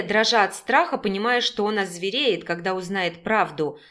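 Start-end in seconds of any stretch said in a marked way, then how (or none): none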